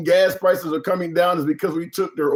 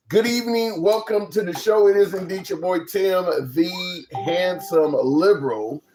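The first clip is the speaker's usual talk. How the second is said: upbeat host welcome; show host intro; 3 semitones higher than usual. Acted. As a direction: announce the show brightly. Show opening greeting.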